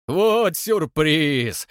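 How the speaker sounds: loud, slow booming delight; hearty old man. A narrator's reading. Old man hugging his friend, loud and slow. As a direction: boom out a glad welcome. Old man's joyous greeting.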